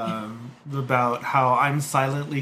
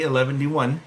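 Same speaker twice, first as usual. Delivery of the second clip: Bilbo Baggins. Retold or imitated. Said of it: "as Bilbo Baggins would say".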